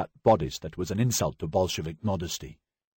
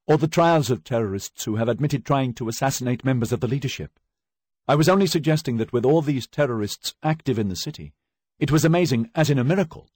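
raised, higher, earnest defence; pleading actress; 6 semitones higher, 4 dB louder than usual. Acted. Accused actress defending her words to the judge, earnest and raised. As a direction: talk your way out of danger, carefully.

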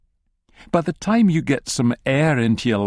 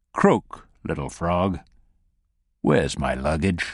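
low, cold, mocking captor voice; menacing captor; 3 semitones lower than usual. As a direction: toy with him like a cat with a mouse. Christie menaces captive.

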